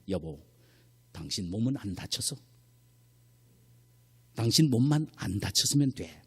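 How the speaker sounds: soft, caring husband, acted out; gentle reassurance. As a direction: reassure a worried wife tenderly. Imagined husband reassures his wife. (아내를 다독이는 다정한 남편 흉내)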